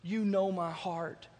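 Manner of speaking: softly acted, pious pleading; mock earnest prayer. Friend praying for a parking spot, mock earnest. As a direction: imitate a friend's humble little prayer. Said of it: "And I just prayed".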